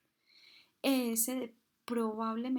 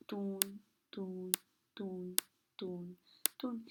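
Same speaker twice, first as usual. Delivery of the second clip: soft rhythmic "tun" like a stethoscope pulse; imitating heartbeat sounds; 2 semitones lower, 4 dB quieter, much slower than usual. Shown as a demonstration. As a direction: tap out each "tun" quietly, like Korotkoff sounds. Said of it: "vuelven a aparecer esos ruidos". (imitando suavemente los latidos, "tun")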